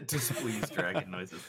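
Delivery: laughing while repeating it; laughing echo. Retold or imitated. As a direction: say it through a laugh. GM laughs, echoing the plea.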